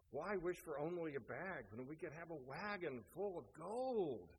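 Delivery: lightly acted greedy one-upmanship; arguing over wishes. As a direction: top the last bid in a mock quarrel. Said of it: "they argued about these three wishes".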